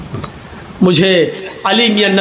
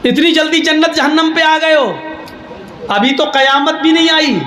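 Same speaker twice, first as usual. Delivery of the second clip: mock preaching; 5 semitones higher than usual. Cleric lecturing the others.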